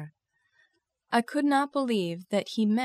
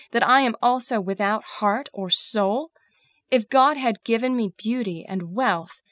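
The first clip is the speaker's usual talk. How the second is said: impassioned, indignant outburst; contained anger, driven and emphatic; very angry; 3 dB louder than usual. Acted. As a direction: protest with rising force and heavy emphasis. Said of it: "I was very angry".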